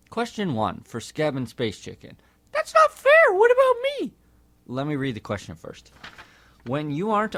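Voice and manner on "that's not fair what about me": high, loud indignant whine; whiny monkey voice. Acted. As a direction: protest like a left-out kid. Fred protests being left out.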